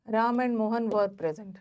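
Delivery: very slow, word by word, as if for note-taking; slow dictation. Shown as a demonstration. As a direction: dictate it slowly to the class. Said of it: "teacher repeats example sentence". (धीमी बोलकर लिखवाना)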